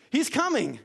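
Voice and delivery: high, ringing call that he's coming; herald's call. Retold or imitated. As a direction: call it out to the crowd. Herald calling the people.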